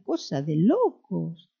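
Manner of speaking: slow, stretched Argentine lilt on "locos"; playful mock-Argentine accent. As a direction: imitate an Argentine, dragging out "locos". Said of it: "como dicen los argentinos".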